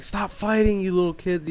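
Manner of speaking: mock yelling at kids; retold neighbor's yell. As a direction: imitate a neighbor scolding kids from outside. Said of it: "he was yelling at us".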